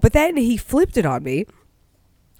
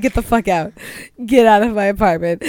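loud, emphatic retold order; imitated angry dismissal, getting louder; mock anger; 6 dB louder, faster than usual. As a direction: throw them out in comic outrage. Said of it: "I was so angry".

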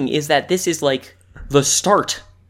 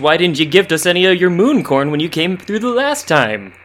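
indignant hermit voice; 4 semitones higher, 4 dB louder than usual. Acted. Hermit demands moon corn.

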